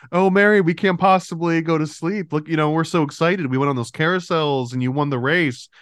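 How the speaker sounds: mock gushing, starting high and easing down; excited child's plea. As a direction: imitate a thrilled kid protesting bedtime. Children excitedly pleading in retold scene.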